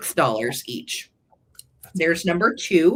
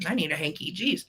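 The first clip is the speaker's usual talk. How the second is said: choked up; 6 dB quieter, faster than usual. Real, not acted. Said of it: "I'm so sorry".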